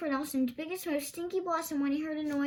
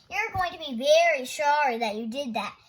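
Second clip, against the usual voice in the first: shouted; 8 dB louder than usual. Acted. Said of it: "Thorndyke shouted".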